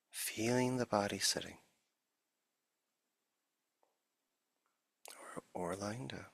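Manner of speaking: unhurried meditation guide with long silences between phrases; guided meditation. Acted. Teacher settling listeners into the body, guided meditation. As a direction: ease listeners gently into stillness, leaving long pauses.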